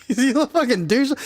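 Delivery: laughing disbelief. Real, not acted. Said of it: "When I think back, I'm like".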